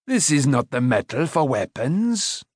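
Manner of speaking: lightly voiced old craftsman; instructing smith. A narrator's reading. Smith dismissing the boy's blade, instructing. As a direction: point it out in the smith's voice. Smith lecturing his pupil in character.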